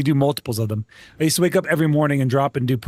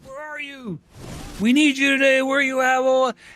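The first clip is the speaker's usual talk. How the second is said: higher, put-on voice of a frantic warrant officer; mock frantic officer; 10 semitones higher than usual. Warrant officer phoning the missing soldier, mock frantic. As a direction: imitate the boss demanding where he is. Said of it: "was losing his shit".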